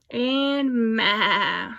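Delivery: bleating like a goat. Shown as a demonstration. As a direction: bleat ma for the kids. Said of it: "Who says ma?".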